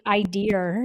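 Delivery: IDEA with an R on the end; imitated pronunciation. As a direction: say IDEA as "eye-DEER". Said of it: "I'm almost certain you said".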